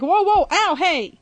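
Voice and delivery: imitating a pained yelp; mock alarm. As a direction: act out a sudden pinch. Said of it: "It's like".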